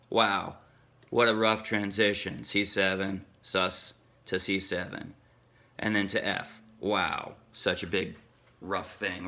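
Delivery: deadpan, low-pitched sarcasm; understated, ironic wonder; mock amazement. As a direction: feign being impressed, dryly. Mock awe at an easy chord change.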